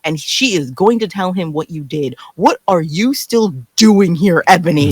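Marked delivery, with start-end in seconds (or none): 2.3-4.9 exasperated demand. Acted. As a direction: ask her why she stays, fed up. Exasperated question to Ebony.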